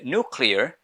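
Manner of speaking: nuclear said American style as "noo-clear"; American pronunciation. Shown as a demonstration. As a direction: say "nuclear" the American way, no y-glide after n. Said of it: "American people say".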